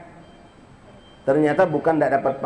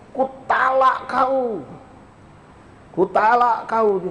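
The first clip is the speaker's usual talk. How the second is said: husband declaring; 5 semitones higher, slower than usual. Retold or imitated. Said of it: "Suaminya bilang akhirnya".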